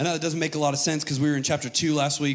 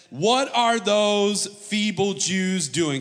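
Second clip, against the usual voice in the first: ridiculing; 4 semitones higher, 3 dB louder, much slower than usual. Acted. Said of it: "He ridiculed the Jews".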